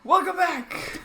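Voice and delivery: sung Disney-movie greeting; Mulan-style voice. Pretend. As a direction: sing it like Mulan. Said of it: "you're actually doing, like, the Mulan sound".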